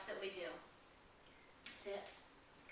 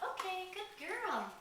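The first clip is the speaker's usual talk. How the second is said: excited dog praise; 9 semitones higher, much slower than usual. Real, not acted. Praising puppy at potty spot.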